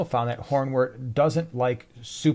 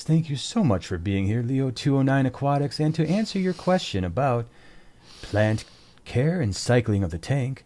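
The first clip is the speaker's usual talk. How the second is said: a lightly done radio announcer voice. Pretend. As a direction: put on a smooth DJ read. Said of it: "I'm going to use my radio voice".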